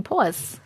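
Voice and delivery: "pause" with a rounded "aw"; New York "aw" vowel in "pause"; Long Island pronunciation. Shown as a demonstration. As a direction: say "pause" as "pawz". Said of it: "I'm saying the same thing".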